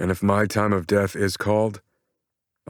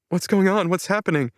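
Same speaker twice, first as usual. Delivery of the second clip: yelling; 12 semitones higher than usual. A narrator's reading. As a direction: shout it down the hall in panic. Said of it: "Michelle yells".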